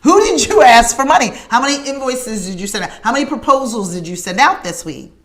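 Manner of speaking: the sister presses her hard. Retold or imitated. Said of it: "And she's like".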